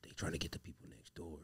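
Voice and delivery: low hushed brother; deep brother voice. Retold or imitated. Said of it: "It's like".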